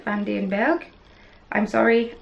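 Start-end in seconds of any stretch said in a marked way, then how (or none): 0.0-0.9 van den Berg repeated in a German accent; German-sounding van den Berg. Real, not acted. Knitter repeats the designer's name in a German accent. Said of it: "that was a very German accent".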